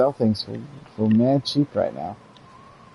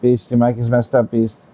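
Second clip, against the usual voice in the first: calling out; 5 dB louder than usual. Real, not acted. Calling out to friend on mic.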